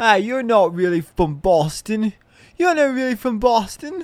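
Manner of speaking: very high put-on British accent. Describing being an outsider, the speaker quotes people teasing them, in a british accent. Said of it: "I'm just doing a British accent now".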